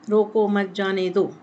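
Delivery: रोको मत जाने दो evenly in one run; slow, level, unbroken रोको मत जाने दो; no pause inside. Shown as a demonstration. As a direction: read straight through without a comma. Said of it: "बीच में कोई भी विराम चिन्ह का मैंने उपयोग किया ही नहीं".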